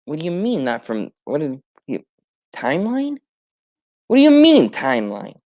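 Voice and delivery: spluttering, baffled disbelief; a confused hero who can't follow the timeline talk; incredulous outburst. Retold or imitated.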